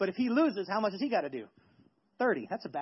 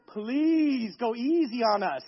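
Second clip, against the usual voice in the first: mock pleading; much slower than usual. Pleading with ladies about tears.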